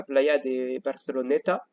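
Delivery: slow, careful Spanish pronunciation of Playa de Barceloneta; Spanish accent. Real, not acted. Teacher naming a Barcelona beach for her class, in a Spanish accent. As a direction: say the place name the Spanish way, unhurried. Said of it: "excusez-moi pour mon accent espagnol".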